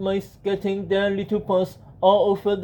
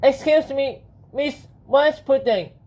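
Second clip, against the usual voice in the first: higher-pitched, polite hero; Benjamin; 5 semitones higher than usual. Acted. Hero calling on the genie, high polite voice. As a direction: raise the pitch to get attention politely.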